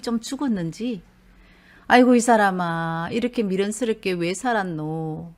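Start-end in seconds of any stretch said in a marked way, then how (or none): 1.9-5.3 chiding. Acted. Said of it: "나무 얘기하듯이".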